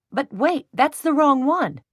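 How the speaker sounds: shocked cry at the wrong sofa; alarmed protest. A narrator's reading. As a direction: stop them in alarm.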